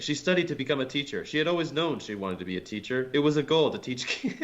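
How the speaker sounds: quick, sing-song mock reading; mocking recitation. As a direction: poke fun at the repetitive text. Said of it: "She's like".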